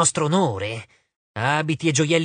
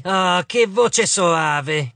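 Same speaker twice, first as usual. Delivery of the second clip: mild cry; 2 semitones higher, 3 dB louder, much slower than usual. Acted. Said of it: "gridò Agno".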